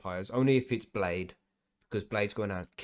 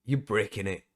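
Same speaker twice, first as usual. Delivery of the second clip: laughing through the words, higher and louder; 5 semitones higher, 8 dB louder, slower than usual. Real, not acted. S1 laughing about meeting sniffer dogs at customs. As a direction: crack up while telling it.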